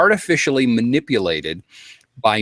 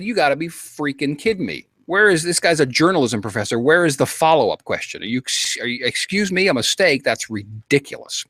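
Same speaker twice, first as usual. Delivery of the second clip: higher-pitched exasperated retort, reliving the anger; indignant disbelief at a lame answer; retold outrage; 4 semitones higher than usual. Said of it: "And I said".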